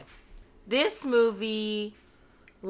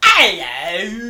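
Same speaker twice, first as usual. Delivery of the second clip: put-on British accent; 8 dB louder than usual. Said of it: "Beverly does a".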